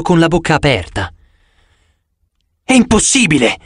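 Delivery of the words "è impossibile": exclaiming. A narrator's reading. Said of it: "esclamò Chirone".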